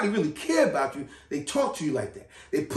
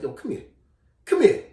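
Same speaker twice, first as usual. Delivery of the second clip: calling over; 3 semitones higher than usual. Retold or imitated. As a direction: call the kid over sharply, rising to a shout. Johnny calling him over.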